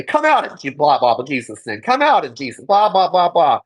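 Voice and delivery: hammed-up commanding chant, brushed off with blah blah; mock exorcist. Church members commanding the demon out, mocking imitation. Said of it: "where they would say".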